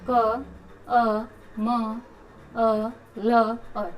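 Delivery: each sound of कमल spoken separately; slow letter-by-letter breakdown of कमल. Shown as a demonstration. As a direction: split कमल into क, अ, म, अ, ल, अ with a pause after each. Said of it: "इसको अलग-अलग करेंगे तो स्वर्णिम बनेगा".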